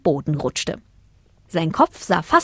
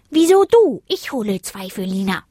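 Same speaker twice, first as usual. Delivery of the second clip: blurting out; 3 semitones higher than usual. A narrator's reading. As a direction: burst in with an indignant challenge. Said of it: "platzte Zack heraus".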